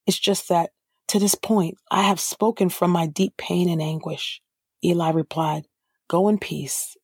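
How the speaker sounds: measured, even Bible reading; scripture reading. A narrator's reading. Preacher reading Hannah's story aloud, measured and even. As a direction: read the passage steadily to the congregation.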